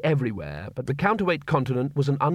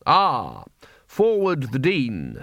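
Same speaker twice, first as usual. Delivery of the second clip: pleasant; much slower than usual. A narrator's reading. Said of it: "said Ridcully pleasantly".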